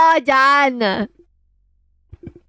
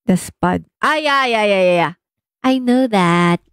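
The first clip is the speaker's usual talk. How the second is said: ordinary delivery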